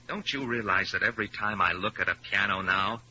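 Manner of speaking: ordinary delivery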